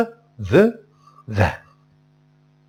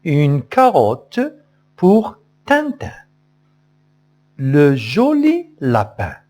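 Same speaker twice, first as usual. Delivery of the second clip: singsong model line. Shown as a demonstration. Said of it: "عاودوا معايا". (نبرة عالية ملحنة للأطفال)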